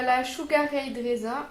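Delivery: English name in a heavy French accent; bad English accent. Real, not acted. Beauty vlogger naming an eyeshadow shade, bad English accent. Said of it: "mon accent totalement affreux, d'anglais".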